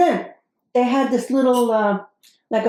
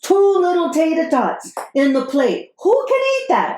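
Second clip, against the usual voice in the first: indignant outburst; 6 semitones higher than usual. Real, not acted. Outraged about tiny portions.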